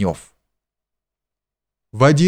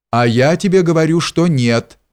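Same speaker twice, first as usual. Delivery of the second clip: booming, fast and high; thundering; 6 semitones higher than usual. A narrator's reading. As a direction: thunder it out at him. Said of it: "загремел боярин".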